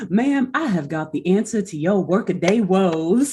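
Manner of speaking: drawling 1950s snake oil salesman; smooth, relaxed Southern pitchman. Retold or imitated. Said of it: "Southern nineteen fifties, like, snake oil salesman voice".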